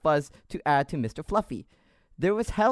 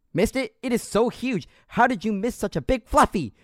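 French Canadian sergeant; 7 semitones higher than usual. Acted. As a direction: grill the recruit in a French Canadian accent. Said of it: "with this accent".

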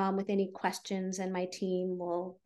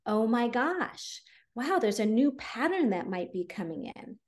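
1 voicing the subconscious; 3 semitones higher than usual. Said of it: "telling your subconscious mind that".

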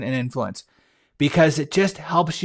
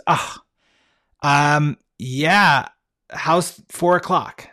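relieved; much slower than usual. Retold or imitated. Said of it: "you can hear the relief in her voice".

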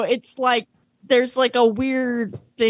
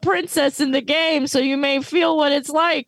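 lightly hammed-up supportive big brother, a little higher; earnest older brother; 4 semitones higher than usual. Big brother gently encouraging Mokuba to accept himself, mock-earnest. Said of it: "'Cause he's like".

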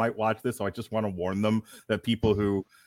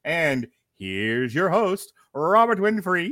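ringmaster; 5 semitones higher, 3 dB louder, slower than usual. Acted. Ringmaster intro continues.

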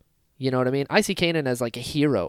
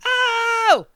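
high, loud joyful oh; thrilled gasp; 8 dB louder than usual. Retold or imitated. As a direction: gasp in delight, twice. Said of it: "And I was like".

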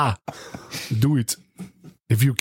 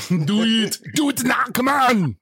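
Arnold yelling impression; 6 semitones higher, slower than usual.

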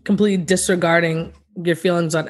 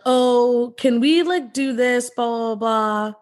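mocking passive aggressive; 4 semitones higher, slower than usual. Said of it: "And I hate the".

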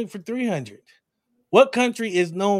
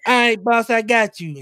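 higher, louder eager yes-man; Lil Jimmy voice; 6 semitones higher, 6 dB louder than usual. Retold or imitated. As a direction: chirp it back like an eager kid. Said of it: "And he was like".

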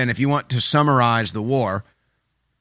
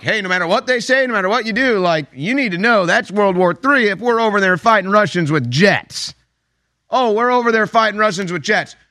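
serious Biden impression; 7 semitones higher than usual. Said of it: "He was serious".

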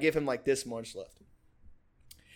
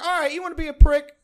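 higher, louder, fast retold retort; imitating an irritated dare, pitched up and loud; mock angry challenge; 11 semitones higher, 9 dB louder, faster than usual. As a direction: throw it out as a quick, heated comeback. Acted taunt at locked-out roommate.

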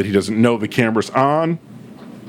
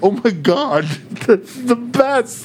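high, slow, laughing delight; 10 semitones higher, slower than usual. Retold or imitated. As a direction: laugh it out, thrilled by the joke. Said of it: "I'm like".

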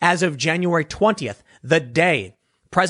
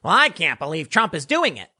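a lightly voiced, level Hillary in the speaker's own pitch; a hint of Hillary Clinton, no pitch lift; Hillary Clinton impression. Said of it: "She more talks like this".

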